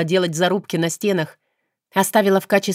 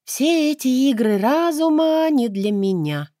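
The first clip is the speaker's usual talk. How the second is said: weary heroine; 7 semitones higher than usual. A narrator's reading. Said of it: "утомлённо прислонилась к стене".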